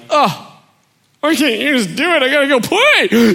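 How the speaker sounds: put-on high, rushed childish protest; imitated impatient child complaining; whiny kid. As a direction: whine back at a nagging parent, fast and high. Himself as impatient kid whining back.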